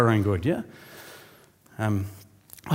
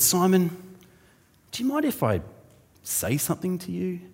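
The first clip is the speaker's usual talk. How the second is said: ominous can-I-say-something tone; 6 semitones higher, 4 dB quieter than usual. Retold or imitated. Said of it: "You know that tone that people have?".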